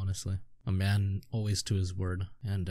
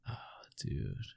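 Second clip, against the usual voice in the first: whisper; 11 semitones lower, 13 dB quieter than usual. Real, not acted. Overwhelmed reaction to crying scene.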